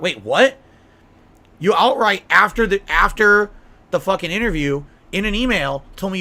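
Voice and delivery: loud, incredulous outburst; wild unhinged ranting. Real, not acted. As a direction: explode in disbelief. Outraged outburst at Craig's request.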